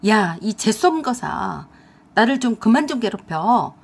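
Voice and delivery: loud angry yell; shouting. Acted. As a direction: bark at her to back off. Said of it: "남친이 그 여자에게 소리를 쳤어요".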